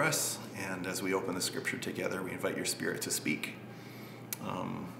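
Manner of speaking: sincere, subdued congregational prayer. Real, not acted.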